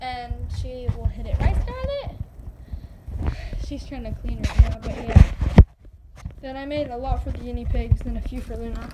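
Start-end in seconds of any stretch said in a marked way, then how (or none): 1.4-3.3 high, drawn-out question to a pet; pet talk. Real, not acted. Owner checks with Scarlett, high pet-talk voice.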